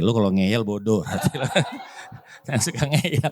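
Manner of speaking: chuckling through the words; soft amused laugh under the words. Real, not acted. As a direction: laugh as you say it, quietly amused. Laughing at stubborn people.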